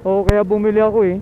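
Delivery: usual speaking voice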